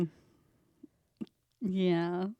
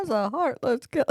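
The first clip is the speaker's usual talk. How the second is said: robot voice; 4 semitones higher than usual. Shown as a demonstration. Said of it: "me trying to do a sound effect".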